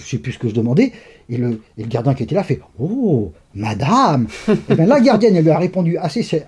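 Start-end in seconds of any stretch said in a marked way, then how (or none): 2.8-4.3 mock-impressed teasing. Guard teases him for saying madame.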